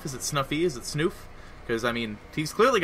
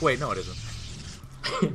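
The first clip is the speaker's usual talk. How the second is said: slow realization; 4 dB quieter, much slower than usual. Retold or imitated. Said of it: "And then they'd be like".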